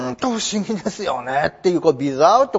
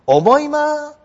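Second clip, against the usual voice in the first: slow, higher "思いませんか？" then coaxing "思いますよね"; a touch of "don't you think"; mild seeking agreement; 4 semitones higher, much slower than usual. Shown as a demonstration. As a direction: gently nudge the listener to agree. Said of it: "こんな感じって受け取ってください".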